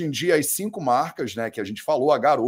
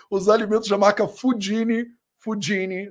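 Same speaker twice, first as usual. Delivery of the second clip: Fudini said the Italian way, foo-DEE-nee; Italian accent; 5 semitones higher than usual. Shown as a demonstration. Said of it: "tô pronunciando com meu sotaque italiano".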